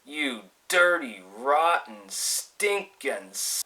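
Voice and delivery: slow, seething curse, held in; acted simmering fury, not shouted; retold boiling anger. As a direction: draw each insult out slowly. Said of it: "and I was boiling".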